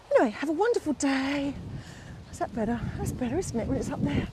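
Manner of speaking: ordinary talk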